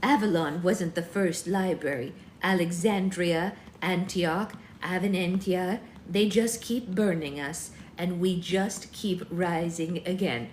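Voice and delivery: lightly voiced old crone; a hint of a defiant old witch. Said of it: "only witch voice I've got for old ladies".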